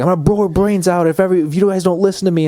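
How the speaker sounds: high, loud, fast mock threat in a put-on voice; threatening Gamora. Gamora with a gun to a woman's head, hammed-up menacing threat. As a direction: snarl the ultimatum like a crazed hostage-taker.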